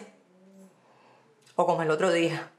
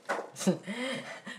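laugh; 4 semitones higher, 9 dB quieter than usual. Acted. Mocking the so-called generous catcallers.

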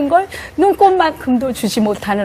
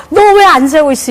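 irritated scolding; 3 semitones higher, 5 dB louder than usual. Retold or imitated. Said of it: "감정은 내가 힘들으니까 막".

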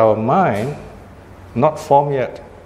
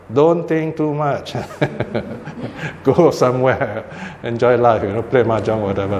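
amused mock advice, breaking into a chuckle; chuckling; 2 semitones lower than usual. Jokes about what most would say.

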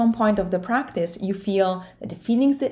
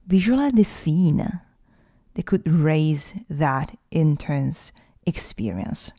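guided meditation. Acted. Coach leading listeners through facing their fear, guided meditation. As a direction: guide the listener inward, unhurried, leaving space to breathe.

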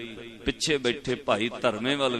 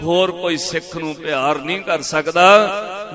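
high, impassioned retold cry of gratitude; fervent mock-weeping devotion; retold tearful praise; 4 semitones higher, 5 dB louder than usual. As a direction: proclaim it loudly, as if overcome by love. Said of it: "ਰੋ ਕੇ ਕਹਿੰਦਾ".

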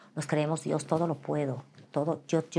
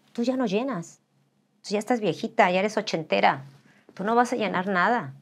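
dismissive critics; 2 semitones higher than usual. Retold or imitated. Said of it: "la gente".

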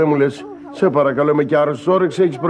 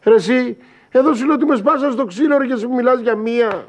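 exasperated outburst; 7 semitones higher than usual. Acted. Friend ignores his beating.

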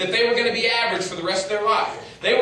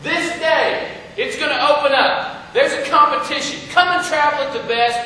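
herald's proclamation; 5 semitones higher, 5 dB louder than usual. Retold or imitated. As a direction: proclaim it to the whole land. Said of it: "let everybody in his land know".

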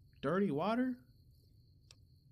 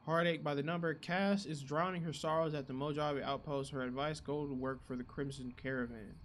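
reading aloud; 3 semitones lower than usual. Real, not acted. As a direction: read the quest log out steadily. Reads quest log aloud.

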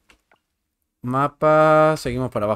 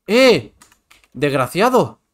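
angry shout; 4 semitones higher, 6 dB louder, much slower than usual. Real, not acted. Annoyed at a game event.

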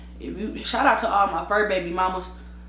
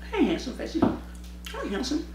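soft, tender pet talk; talking to dog; 5 semitones higher, 7 dB quieter than usual. Real, not acted. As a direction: coo at the dog.

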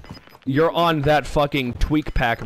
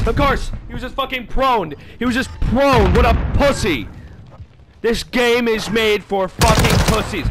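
angry rant; 5 semitones higher than usual. Real, not acted. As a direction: vent your rage at the game. Angry rant about camper.

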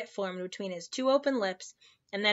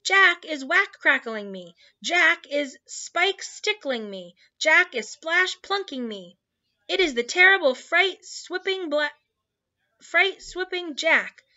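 high, loud giant in panic; terrified high-pitched ranting; bellowing in terror; 8 semitones higher, 6 dB louder than usual. A narrator's reading. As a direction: wail and bellow at full pitch. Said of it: "bellowed the flesh lump eater".

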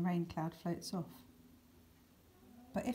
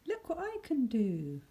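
higher, proud little boast; bright proud thought; 6 semitones higher than usual. Pretend. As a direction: show off like a happy child. Cheerful thought quoted.

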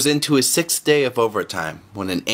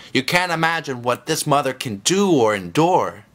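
excited; 5 semitones higher than usual. Acted. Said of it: "said the Lord excitedly".

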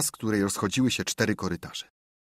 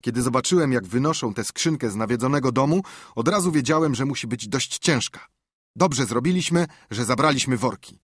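lightly voiced boy, a touch higher; eager boy explaining, mildly raised; boy's voice; 3 semitones higher than usual. Tomek's voice in story.

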